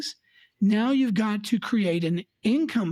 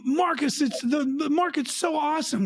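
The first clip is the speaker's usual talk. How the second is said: mock excited cheering; 5 semitones higher than usual. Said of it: "they're going".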